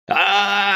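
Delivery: high, shrieking agony; scream of pain. A narrator's reading. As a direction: howl as the arm goes. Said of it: "закричал Фицджеральд".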